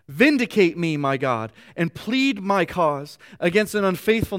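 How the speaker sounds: earnest, rising reading of a psalm; scripture reading. Acted. Pastor reads the psalm to his congregation, earnest. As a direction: read the verse as a heartfelt plea.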